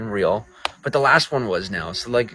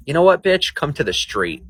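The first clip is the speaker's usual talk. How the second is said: mock threat; 7 semitones higher than usual. Mock street-fight challenge.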